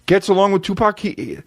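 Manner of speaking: high, incredulous rant at the news; exasperated outburst. Retold or imitated. Comedian ranting about Napoleon and a rapper, high and incredulous. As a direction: blurt it out in disbelief. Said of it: "And I gotta be like".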